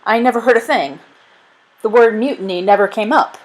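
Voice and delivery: nervous denial. Acted. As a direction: deny it all a little too eagerly. Caught spy denies everything.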